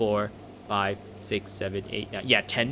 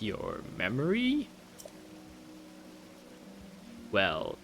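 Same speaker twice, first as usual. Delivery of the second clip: stately, wistful royal appeal; a grieving father-king pleading for recognition; dismayed old king; 4 dB quieter, slower than usual. Acted. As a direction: appeal regally, drawing out key phrases.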